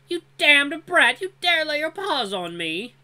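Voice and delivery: high, slow, enraged yell; furious shout. Acted. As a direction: roar it with wounded pride. Dran shoved to the dirt.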